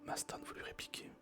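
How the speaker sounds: whispered story reading. Acted. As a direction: read the story gently in a whisper. Reads Jules Verne aloud whispering.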